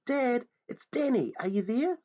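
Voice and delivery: high loud calls, searching; calling out. Acted. Boy searching the dark wood for his father, loud calls. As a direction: shout into the darkness for him. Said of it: "I shouted".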